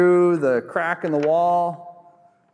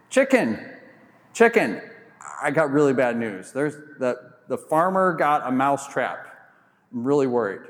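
worried mouse. Acted. Mouse begs chicken for help.

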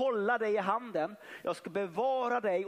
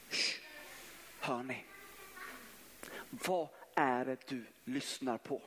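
hushed whisper; 7 semitones lower, 6 dB quieter than usual. Acted. Preacher hushing the church to listen, whispered. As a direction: drop to a hush, then whisper the question.

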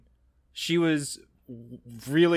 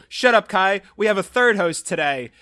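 announcer shout; 5 semitones higher, 8 dB louder than usual. Pretend. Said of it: "interrupt you in the middle and go".

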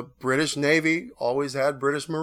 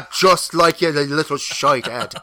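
loud, slow, stern granny; ghost voice; 2 semitones higher, 9 dB louder, slower than usual. Retold or imitated. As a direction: scold like a disapproving Irish grandmother. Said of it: "It's usually something like".

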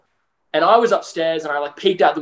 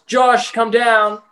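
slow, stern summons down the stairs; imitating a stern father calling his son; stern dad call; 5 semitones higher, much slower than usual. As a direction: call him down like an angry dad. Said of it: "he sounded really angry when he said".

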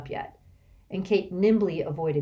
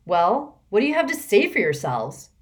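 loud, raised snarl; 3 semitones higher, 6 dB louder than usual. Acted. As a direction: snarl the demand at them. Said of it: "Martina snarled".

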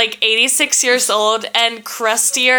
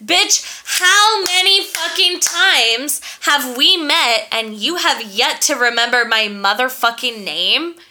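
imagined tirade. Retold or imitated. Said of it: "what I wish I would have said".

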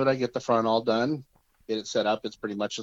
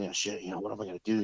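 inner thought; 7 dB quieter, much faster than usual. Retold or imitated.

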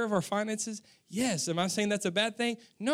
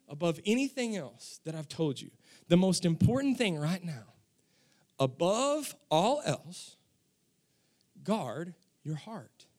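nice way; 4 semitones lower than usual. Shown as a demonstration. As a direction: ease off and plead tenderly at the end. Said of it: "He says it in a nice way, not a mean way".

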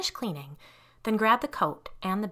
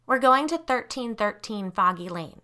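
loud; 3 semitones higher, 4 dB louder than usual. Acted. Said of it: "she said in a loud voice".

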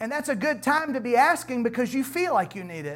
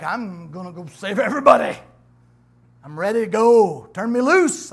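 eager new convert; 7 dB louder than usual. Retold or imitated. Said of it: "You're like".

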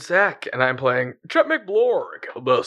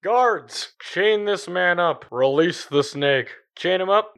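higher barked orders to guards; commanding paladin; 6 semitones higher, slower than usual. Acted.

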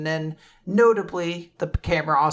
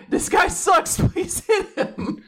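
Bonnie voice; slower than usual. Retold or imitated. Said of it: "she's like".

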